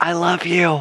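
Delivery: whispering. Speaking in character into a bracelet: whispering in character. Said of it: "Whisper what?".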